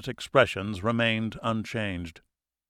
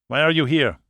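sharp demand; 4 semitones higher, 5 dB louder than usual. A narrator's reading. Captor interrogating sharply.

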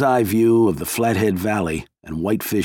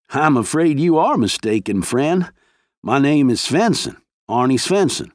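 higher, lightly voiced old man; innocent denial; 5 semitones higher than usual. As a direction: play dumb, friendly but firm. Old man denies identity, feigning innocence.

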